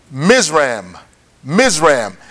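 Mizraim said as two beats, MIZ-ram; pronunciation of Mizraim. Shown as a demonstration. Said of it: "It is pronounced Mizraim".

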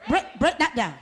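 laughing through the words; tickled, half-laughing shout; laughing call. Acted. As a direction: giggle while calling it out.

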